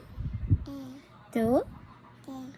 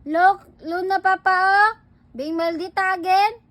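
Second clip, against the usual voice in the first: high, raised-voice complaint; tattling; 5 semitones higher, 3 dB louder than usual. Pretend. Parent tells Papa that Luna is naughty, tattling. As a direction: report the naughtiness with rising indignation.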